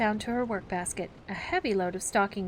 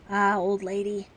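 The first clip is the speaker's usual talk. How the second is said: warming; 5 dB louder than usual. Acted.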